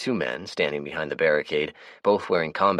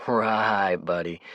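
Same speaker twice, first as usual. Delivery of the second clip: sarcastic drawl; 4 semitones higher, much slower than usual. Acted. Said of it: "drawled out sarcastically".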